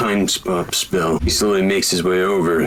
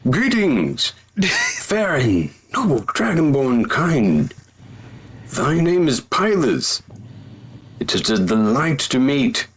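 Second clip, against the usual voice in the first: formal knight; 4 semitones higher than usual. Acted. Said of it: "he does the introduction".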